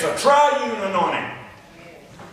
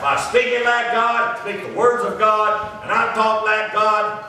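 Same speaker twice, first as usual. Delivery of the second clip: slow, deliberate pulpit cadence; emphatic preaching; 3 semitones higher, slower than usual. Real, not acted. Preacher teaching believers to talk like God, slow emphatic preaching. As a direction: drive each phrase home.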